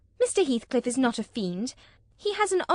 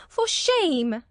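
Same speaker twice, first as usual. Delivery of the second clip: angry repeat; 8 semitones higher than usual. A narrator's reading. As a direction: repeat it with more anger. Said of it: "she repeated angrily".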